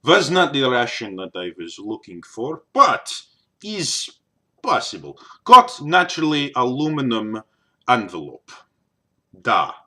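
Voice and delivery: put-on Russian accent. Shown as a demonstration. Vlogger getting back to the Russian word list, Russian accent.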